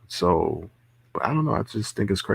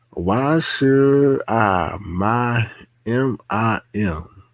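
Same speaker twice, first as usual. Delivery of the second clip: mimicking; much slower than usual. Mimicking a clip slowly.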